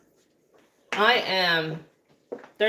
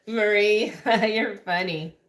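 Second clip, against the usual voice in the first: laughing through her words; slower than usual. Real, not acted. Laughing at Marie's joke, amused and giggling. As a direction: giggle out the compliment.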